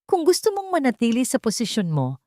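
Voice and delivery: icy threat. Acted. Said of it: "kasing lamig ng yelo".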